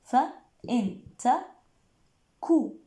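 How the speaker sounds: very slow, every sound drawn out; slow correction. Shown as a demonstration. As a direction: restate فإن تكو slowly after the slip. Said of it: "آسفة".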